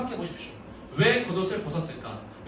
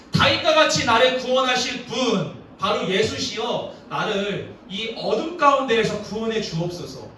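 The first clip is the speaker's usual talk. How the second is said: raised, insistent preacher's plea; pleading; 3 semitones higher, 4 dB louder than usual. Acted. Beggar asking Jesus to save him, pleading. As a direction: act out begging to be saved.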